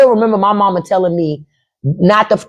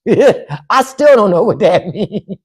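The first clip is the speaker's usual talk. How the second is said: laughing; slower than usual. Real, not acted.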